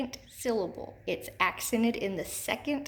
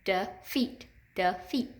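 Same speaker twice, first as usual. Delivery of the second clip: "Defeat" broken in two at the syllable break; measured teacher demo of "Defeat", a small gap before the second syllable; slower than usual. Shown as a demonstration. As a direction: say "Defeat" as two separate beats. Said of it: "Say it".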